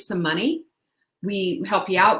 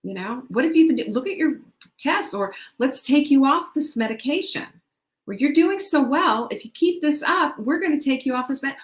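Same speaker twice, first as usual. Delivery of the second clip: a higher, upbeat doctor's voice; pleased doctor, higher and bright; doctor praising; 6 semitones higher than usual. Retold or imitated. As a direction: cheer the patient on like a pleased doctor. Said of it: "having your doctor say to you".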